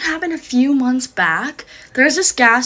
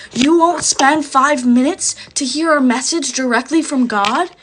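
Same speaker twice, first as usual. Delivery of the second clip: higher-pitched, offended mock protest; upset disbelief; 4 semitones higher, 4 dB louder, slower than usual. Stranger upset that she won't stay for his message, indignant protest. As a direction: push it out like an insulted messenger. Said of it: "Like, getting upset at me".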